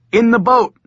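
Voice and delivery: high, loud urgent call; urgent shout. Acted. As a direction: shout the order to flee. Fleeing the mob.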